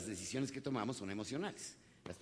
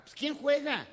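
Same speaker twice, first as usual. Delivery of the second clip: high, louder baffled "who's playing?"; incredulous question; 13 semitones higher, 6 dB louder, slower than usual. A father baffled by his son's insistence, incredulous. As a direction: push up in disbelief.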